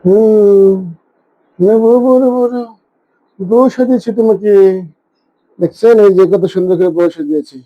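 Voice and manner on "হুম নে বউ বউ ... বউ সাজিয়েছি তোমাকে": doting, pitched-up pet talk; cooing to pet. Real, not acted. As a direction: coo playfully at your dressed-up pet. Cooing to dressed-up cat.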